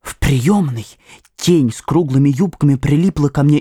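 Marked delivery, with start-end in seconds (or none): none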